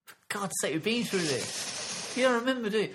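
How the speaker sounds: mock exasperation. Mock exasperated vampire accusation.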